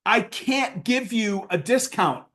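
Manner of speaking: slow, deliberate refusal; firm refusal. Retold or imitated. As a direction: spell it out slowly to a pushy client. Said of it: "And I said".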